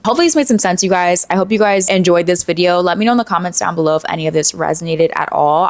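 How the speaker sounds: tired, worn-out hoarse voice. Real, not acted. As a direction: voice going hoarse. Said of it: "I'm, like, losing my voice".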